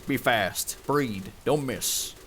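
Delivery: put-on cowboy narrator with a Western American accent. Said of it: "I gotta do the fucking Western accent".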